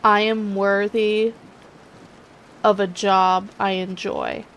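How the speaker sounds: slow, deliberate affirmation voice. Shown as a demonstration. Coaching viewer to recite, slow sincere affirmation. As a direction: say it like a mantra, measured. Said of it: "positive affirmations".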